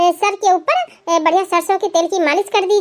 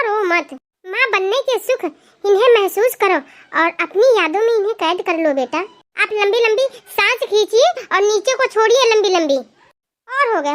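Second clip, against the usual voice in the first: calm doctor. Acted. Doctor tells the crying mother to breathe, reassuring.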